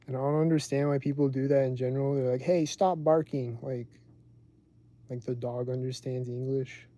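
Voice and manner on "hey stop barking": mild mock yell, louder and drawn out; slow, raised-voice mock scolding; imitated yelling. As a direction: imitate an owner calling off a dog. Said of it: "they just keep yelling at it".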